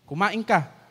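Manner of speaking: firm order, "Kumain" stressed and falling; command tone. Shown as a demonstration. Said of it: "That's imperative, utos".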